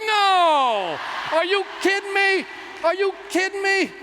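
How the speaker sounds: outraged shout. Retold or imitated. DJ announces break, outrage.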